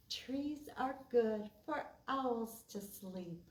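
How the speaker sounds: measured, sing-song poem reading; rhythmic read-aloud for kids; poem recitation. Acted. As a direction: recite a children's poem with a steady beat.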